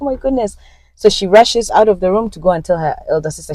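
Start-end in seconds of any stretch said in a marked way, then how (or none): 0.0-0.6 lightly acted, higher-pitched excitement; mildly thrilled exclamation, retold; excited. Younger sister hearing of the father's visit, excited. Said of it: "she's so excited".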